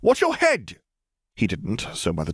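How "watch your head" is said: high-pitched shouted warning; warning call. A narrator's reading. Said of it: "she offered a warning to the man".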